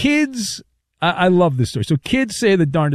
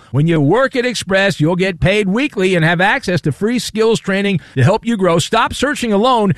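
punchy radio ad voice; ad read; 2 semitones higher than usual. Acted. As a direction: sell it like a radio spot. Reads a sponsor ad.

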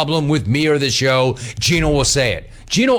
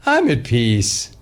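mock serene Gino; 2 semitones lower than usual. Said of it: "expect Gino to say".

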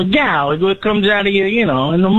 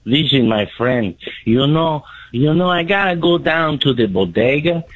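a mild mock Latino neighbor voice; Hispanic accent. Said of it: "do you not have a Mexican?".

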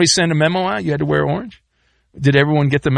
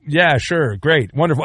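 usual speaking voice

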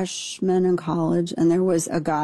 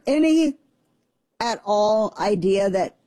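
normal talking voice

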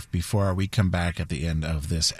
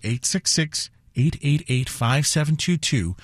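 phone number spaced out slowly; slow repeat; 4 semitones higher than usual. Real, not acted. Host repeats the pledge phone number for listeners, slowly. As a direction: say the digits slowly, in separate groups. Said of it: "I'll say it again slowly".

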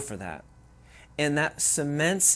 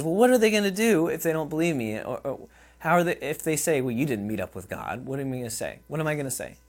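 acted Moses; 2 semitones higher, faster than usual. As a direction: rush the excuses like a nervous Moses. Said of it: "I'm gonna kinda act it out for us here".

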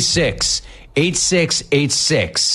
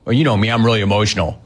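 mock excuse; 6 semitones lower, much faster than usual. Mocking the player's excuse again.

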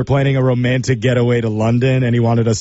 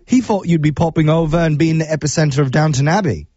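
put-on British accent; 3 semitones higher than usual. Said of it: "use my absolute worst British accent".

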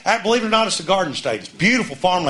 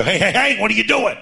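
higher, indignant cow complaint; talking cow; 5 semitones higher than usual. Retold or imitated. Comic cow scolds the family for polluting its pond, higher. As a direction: play the cow scolding the fishermen. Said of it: "The cows come up and go".

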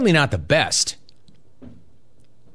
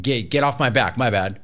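dismissive; 2 semitones lower than usual. Retold or imitated. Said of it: "Acknowledging it is like".

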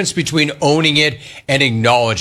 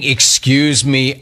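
imitating Allegretti's excuse me; much slower than usual. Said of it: "Him saying".

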